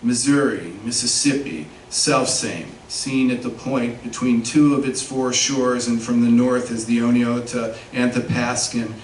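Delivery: measured, emphatic literary reading in phrases; poetry reading. Acted. Poet reads a meditation on the word Missouri, measured poetry reading. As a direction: read the poem deliberately, setting off key words. Reads own poem aloud.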